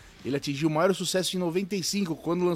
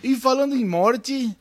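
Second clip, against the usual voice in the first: clickbait video narrator. Pretend. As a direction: build fake suspense. Dramatic teaser of shock news.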